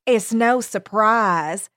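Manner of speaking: slow, stretched Southern drawl. Acted. Cater Lee gossiping at the funeral, slow Southern drawl. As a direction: drawl it out knowingly in Southern accent. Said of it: "Cater Lee drawled".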